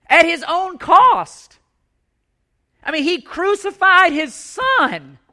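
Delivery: slow, heavy stress on each word; a hint of a solemn preacher, slow; slow emphatic preaching. Real, not acted. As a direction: let the cost sink in slowly. Preaching with force, slowed.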